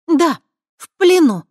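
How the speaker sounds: high, loud hard repetition of "в плену"; harsh repeat. Acted. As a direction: slam "в плену" back at him. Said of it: "жёстко повторила она".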